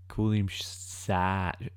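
slow, drawn out first go at a Kiwi "Sarge"; a near miss at the Kiwi accent, said slowly; first try at Kiwi accent. Shown as a demonstration. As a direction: stretch "Call him Sarge" out slowly, the Kiwi accent not quite there yet. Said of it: "No, it's, it's, it's more like in that accent".

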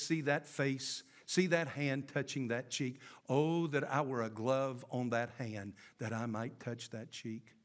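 low, soft, swooning Romeo; hammy stage actor. Retold or imitated. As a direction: sigh it out like a lovesick actor. Preacher acting lovesick Romeo.

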